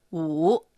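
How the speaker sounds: お drawn out low with a final rise; low dipping tone. Shown as a demonstration. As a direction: dip お low, then lift it. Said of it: "普段より低く発音します". (「お」を低く伸ばす)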